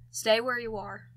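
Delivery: put-on loud, commanding French accent; Francis's French accent. A narrator's reading. Gunman warns a stranger in the woods, French accent. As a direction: order it firmly in a French accent. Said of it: "It also has an accent".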